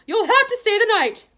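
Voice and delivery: high, loud, stern nurse; brisk matron. A narrator's reading. Matron ordering Harry to stay, loud and stern. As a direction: lay down the rule firmly.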